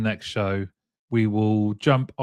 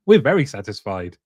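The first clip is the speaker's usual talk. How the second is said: jokey swooping pitch on "very"; mock satisfied buyer; 3 dB louder than usual. Host joking as the buyers of the tech, mock delighted. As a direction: overdo the satisfaction for a laugh.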